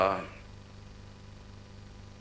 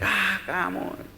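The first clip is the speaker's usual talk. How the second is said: slow, drawn-out jeering; mock taunt; 5 semitones higher, 5 dB quieter, much slower than usual. Young townspeople jeering at the traveler, a slow mocking taunt. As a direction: sneer it slowly like a taunting kid. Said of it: "Dia diejek".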